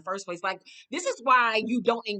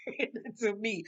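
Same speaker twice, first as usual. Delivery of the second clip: put-on whiny little girl. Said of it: "Like a little girl".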